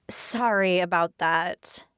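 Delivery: slow, bored, sighing apology; lazy sigh. Acted. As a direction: drag it out lazily. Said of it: "I say with a lazy sigh".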